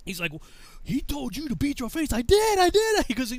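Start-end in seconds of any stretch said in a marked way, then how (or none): 0.8-2.1 high-pitched accusing voice; scolding sergeant. Retold or imitated. Sergeant confronts recruit. 2.1-3.1 high, loud yelp; hammed-up panicky recruit; frantic protest.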